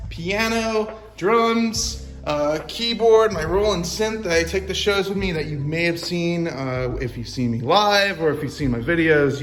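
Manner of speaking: garage reverb. Real, not acted. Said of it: "sorry for the, uh, reverb in here".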